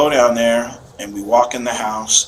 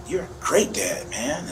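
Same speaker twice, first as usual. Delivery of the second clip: soft retold praise; 6 semitones higher, 6 dB quieter, slower than usual. Father retells son's tender words.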